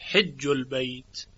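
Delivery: حج said as hijj, with a kasra on the ha. Shown as a demonstration. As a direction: read حج البیت slowly with hijj. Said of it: "به کسر حاء خونده".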